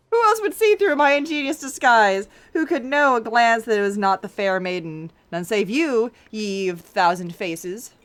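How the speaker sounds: a hint of smug gloating; lightly voiced detective. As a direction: savor the clever reveal.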